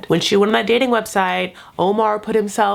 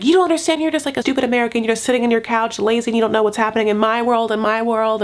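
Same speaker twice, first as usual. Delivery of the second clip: imitated scolding; 2 semitones higher, faster than usual. Girlfriend berating her American boyfriend, imitated fast scolding. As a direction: lay into him in a hurried imitation.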